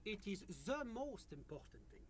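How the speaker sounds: put-on stiff French-accented official; French accent, very sure of itself. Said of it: "this is a true French accent".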